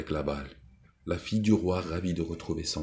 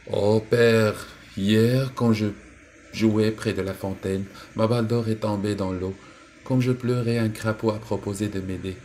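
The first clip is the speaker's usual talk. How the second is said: put-on much higher and louder, upset girl; distressed princess; 5 semitones higher, 5 dB louder than usual. Princess tells her father about the toad, loud and distressed. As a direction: pour it all out to father in alarm.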